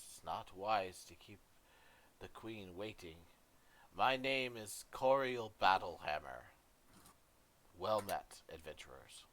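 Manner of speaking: calm, measured and restrained; inform, don't scold; reserved tone. Acted. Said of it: "in a reserved tone".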